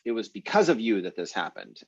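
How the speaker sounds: "because" punched, rest falling away; stress on BECAUSE OF YOU. Shown as a demonstration. Teacher restating the new information, stress on "because of you". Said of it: "we're emphasizing the, um, the because of you part".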